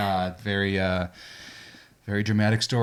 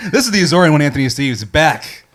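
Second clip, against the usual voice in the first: dark lord; 4 semitones higher, 5 dB louder than usual. Pretend. Grand self-introduction.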